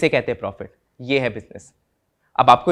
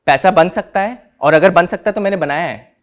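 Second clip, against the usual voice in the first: raised voice, emphatic; louder, make the boast to the inquiry; defiant self-defence, voice raised; 2 semitones higher, 6 dB louder than usual. Acted. Defiant defence speech before inquiry.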